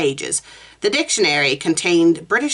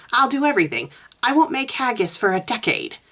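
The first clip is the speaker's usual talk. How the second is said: begging; 6 semitones higher than usual. Acted. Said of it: "I'm begging you".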